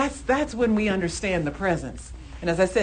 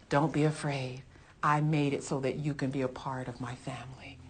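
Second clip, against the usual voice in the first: whispered, softer, lower promise; 3 semitones lower, 6 dB quieter than usual. Retold or imitated. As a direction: breathe it close like a secret. Jesus voiced close and intimate.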